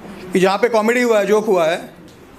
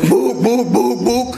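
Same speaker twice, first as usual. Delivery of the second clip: caveman grunting; 2 semitones higher, much slower than usual. Retold or imitated. Caveman word repeated.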